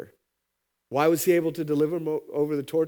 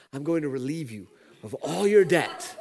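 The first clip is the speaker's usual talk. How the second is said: laughing mock promise; 4 dB louder than usual. Joking political debt relief.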